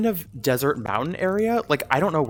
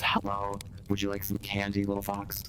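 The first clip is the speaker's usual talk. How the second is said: soft witch voice; 3 semitones lower, 6 dB quieter than usual. Acted.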